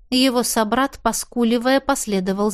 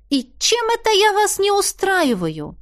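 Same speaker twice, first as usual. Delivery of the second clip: snide question; 10 semitones higher than usual. A narrator's reading. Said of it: "осведомилась ехидно".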